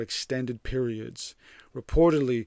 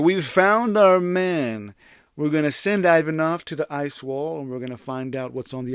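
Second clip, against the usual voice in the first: put-on German accent; 3 semitones higher, 6 dB louder than usual. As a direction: lay on a hammy German accent, stretching the start. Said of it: "I'm trying to do a German accent".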